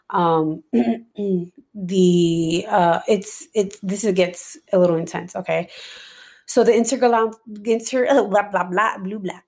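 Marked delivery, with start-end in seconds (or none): 6.4-9.4 tongue-tied from a dry mouth; stumbling over words, throat dry. Real, not acted. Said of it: "What was that?".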